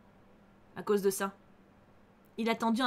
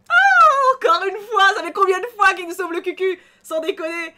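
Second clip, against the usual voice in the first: much higher, loud excited squeal; delighted outburst; 6 semitones higher, 11 dB louder than usual. Real, not acted. Player saved yet again by the vampire, excited loud squeal. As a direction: gush with amazement.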